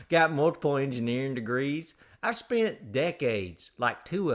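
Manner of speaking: exaggerated folksy host spiel; hammed-up show intro. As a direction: roll out your titles with theatrical pride. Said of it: "do the whole show like that".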